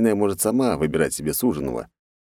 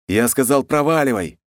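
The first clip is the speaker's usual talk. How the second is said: barked; 6 semitones higher than usual. Acted. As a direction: snap the order at her. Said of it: "рявкнул я". (рявкнуть)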